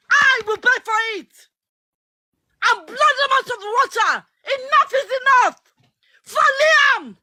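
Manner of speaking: shouting in real frustration; emotional shouting. Real, not acted. Speaker on a live chat shouting in anger about the bullying. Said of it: "I'm sorry I'm shouting".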